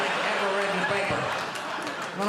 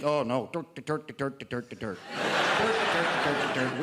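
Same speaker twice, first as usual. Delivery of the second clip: mock Irish protest; 3 semitones lower than usual. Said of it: "some Irish in who think".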